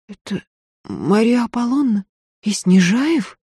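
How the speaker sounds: удивлённый вопрос, выше; изумлённая барышня; поражённо. A narrator's reading. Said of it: "поразилась Софья". (Софья поражается шуму за стеной)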